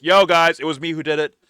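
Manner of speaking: mock screaming. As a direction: call out a confession to everyone. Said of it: "should come out screaming, like".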